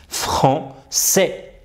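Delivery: "français" said breathy and unvoiced on the soft c; soft s sound. Shown as a demonstration. Teacher shows the softened C in a whisper. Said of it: "ça fait s".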